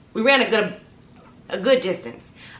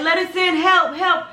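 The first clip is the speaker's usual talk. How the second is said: high-pitched mock cry for help; retold frantic plea; 8 semitones higher than usual. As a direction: call out frantically, acting hysterical. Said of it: "I'm screaming, I'm still frantic, hysterical".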